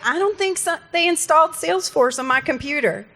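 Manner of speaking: high, baffled user voice, mildly hammed-up; mock confused user. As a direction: play the clueless user who swears Salesforce is installed. Retold confused user calling in.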